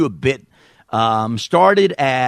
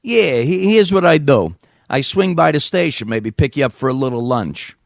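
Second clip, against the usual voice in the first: put-on New York accent; 3 semitones higher than usual. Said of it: "me doing a New York accent".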